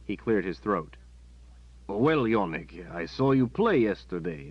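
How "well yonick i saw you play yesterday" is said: slow, awkward start; stammering captain. Acted. Captain awkwardly praising the boy's game, stammering. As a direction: fumble for words. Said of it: "the captain stammered".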